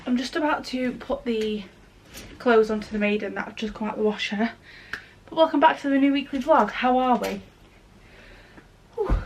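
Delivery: breathless after climbing stairs; panting a little between words; out of breath. Real, not acted. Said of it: "I'm out of breath from walking up the stairs".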